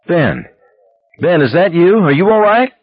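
anxious wife, pitch climbing high; frightened concern. A narrator's reading. Wife hearing Ben on the phone, anxious and frightened. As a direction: ask urgently, voice rising into worry. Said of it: "wary, a little frightened".

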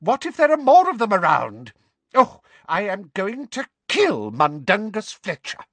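put-on high, loud panicky old woman; frightened shriek. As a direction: shriek it out in alarm. Panicked old neighbour scolding.

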